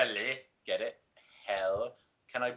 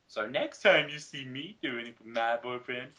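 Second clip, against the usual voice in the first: snarky threat; 5 dB louder than usual. Retold or imitated. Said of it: "I snarked".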